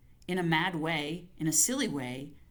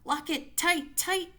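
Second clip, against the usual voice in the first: rising ever higher, desperate pleading; frantic cries; 12 semitones higher, 3 dB louder than usual. Acted. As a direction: shriek to make it hold. Locking the door in panic.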